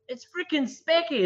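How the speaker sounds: thrilled shout of recognition; excited. Retold or imitated. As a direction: greet him like a surprised fan. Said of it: "and I was like".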